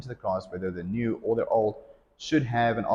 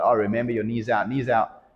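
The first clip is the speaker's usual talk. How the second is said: mildly raised coaching call; 2 semitones higher, 4 dB louder than usual. Shown as a demonstration. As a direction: project a reminder to the class. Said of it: "I'm gonna call out".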